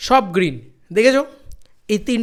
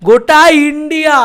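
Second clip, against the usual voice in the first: excited shout; 7 semitones higher, 10 dB louder than usual. Real, not acted. Hyping the all-India response.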